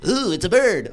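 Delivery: Steve Buscemi bird watching. Retold or imitated. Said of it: "I'll do Steve Buscemi bird watching".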